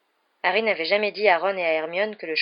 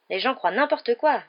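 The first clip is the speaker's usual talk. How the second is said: disgusted; 6 semitones higher, 4 dB louder than usual. A narrator's reading. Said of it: "dit Ron d'un air dégoûté".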